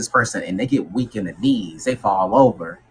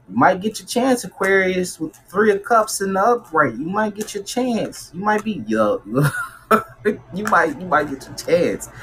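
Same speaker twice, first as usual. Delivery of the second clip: excited; 8 semitones higher than usual. Real, not acted. Good news for Aquarius.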